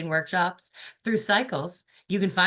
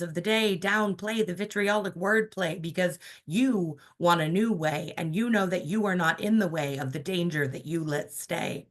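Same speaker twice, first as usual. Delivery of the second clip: spoken-word poet reading to a crowd; poem reading. Acted. Performs political spoken-word poem.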